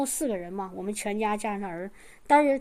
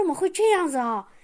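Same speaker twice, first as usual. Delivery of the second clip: shocked dismay; 4 semitones higher than usual. Retold or imitated. Hearing the mother's rejection, a shocked cry. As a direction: gasp out your disbelief. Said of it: "当时我这心就".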